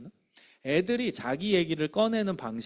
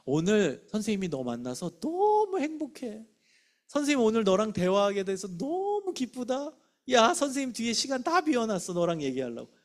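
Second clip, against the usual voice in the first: enthusiastic teacher; 5 semitones higher than usual. Shown as a demonstration. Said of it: "적극적 표현은 이런 겁니다".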